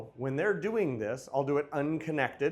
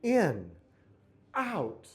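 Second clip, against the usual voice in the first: exaggerated wrong way; 2 semitones higher, 3 dB louder than usual. Shown as a demonstration. Teacher showing leaders the wrong, oversized prep. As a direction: overdo it to show the mistake. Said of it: "Please don't make it in, out".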